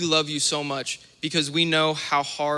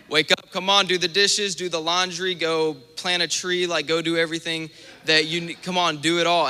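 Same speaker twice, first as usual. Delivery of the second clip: mock mom calling loudly to wake her kid; nagging mom; 3 semitones higher, 3 dB louder than usual. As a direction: badger him like a mom on Saturday morning.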